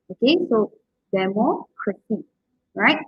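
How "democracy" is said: de-MOC-racy, slowly, weight on MOC; slow down democracy and lean on MOC; democracy said slowly with MOC stressed; stress on third-last syllable. Shown as a demonstration. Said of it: "third from last".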